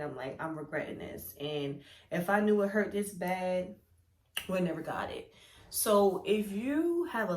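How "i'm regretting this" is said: inner thought. Retold or imitated. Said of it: "already in my head".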